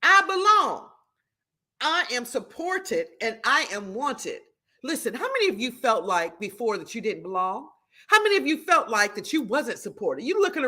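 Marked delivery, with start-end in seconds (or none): 0.0-4.4 slow affirmation. Shown as a demonstration. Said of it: "It says".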